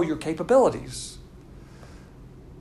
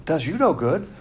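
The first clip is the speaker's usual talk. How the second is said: mock doubter; 6 semitones higher, faster than usual. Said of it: "you can say".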